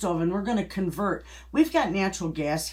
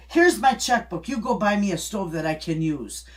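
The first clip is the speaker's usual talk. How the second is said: mother's firm demand; 3 semitones higher, 5 dB louder than usual. Retold or imitated. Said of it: "she said".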